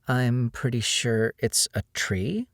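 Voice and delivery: slow, teasing line that lifts into a question; playful. Acted. Jillian teasing Diego about the tree, playful and questioning. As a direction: tease him, as if asking. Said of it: "her voice playful, pitching up into a question mark".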